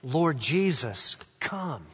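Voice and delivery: slow, hushed plea ending softly; quiet, unhurried petition; prayer. Shown as a demonstration. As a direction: pray it gently, pausing before the last word. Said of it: "it becomes a prayer".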